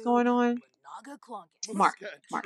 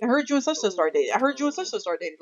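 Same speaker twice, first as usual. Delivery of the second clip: mocking taunt; 3 semitones higher, faster than usual. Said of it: "She, like, rubbing it in my doggone face".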